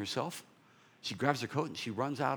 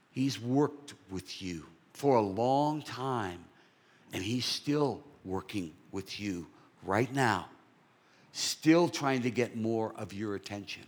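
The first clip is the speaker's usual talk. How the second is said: earnest preaching; 4 dB louder, slower than usual. Acted. Sermon appeal to congregation.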